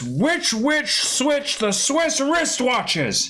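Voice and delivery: careful, slow tongue twister; deliberate tongue twister attempt. Shown as a demonstration. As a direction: spell it out slowly, word by word. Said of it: "So how about this?".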